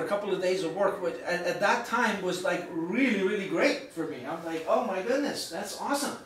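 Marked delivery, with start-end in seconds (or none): 4.7-6.2 lightly acted happy reaction; pleased amazement. Telling the audience about great pay, pleased amazement. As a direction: retell a pleasant surprise, pitched up slightly.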